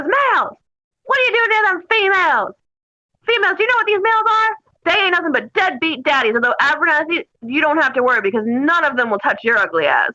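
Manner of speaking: lightly voiced angry sergeant scolding recruits; stomping drill sergeant. Sergeant stomps over to berate males and females, mock scolding. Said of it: "And he comes stomping over".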